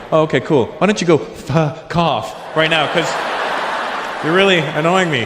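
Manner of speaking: fake-calm telling the pedant off; mock polite brush-off. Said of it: "And I go".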